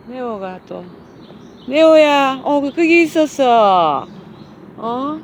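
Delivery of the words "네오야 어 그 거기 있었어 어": calling out. Real, not acted. Calling the dog to eat.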